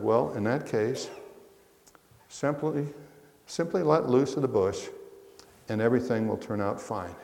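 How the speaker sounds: a hint of a serene, unhurried God; calm voice. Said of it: "The calm voice said".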